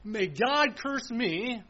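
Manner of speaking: slow, drawn-out solemn oath. Retold or imitated. Preacher voicing Peter swearing, slow solemn oath. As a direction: stretch out every word of the curse. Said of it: "something like this".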